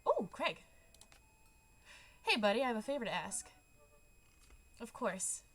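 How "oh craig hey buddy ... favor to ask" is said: eager greeting. Acted. Greeting a buddy.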